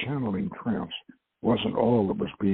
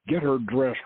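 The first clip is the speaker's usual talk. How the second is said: barking; 3 semitones higher than usual. Acted. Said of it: "Renda barked".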